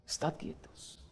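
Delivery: "Estad quietos" fully whispered; "Estad quietos" whispered to the congregation. Shown as a demonstration. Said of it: "Memoriza este pasaje".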